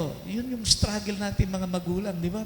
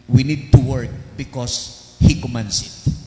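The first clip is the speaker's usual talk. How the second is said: preaching emphasis; 4 semitones lower, 8 dB louder than usual. Acted. Preaching exhortation.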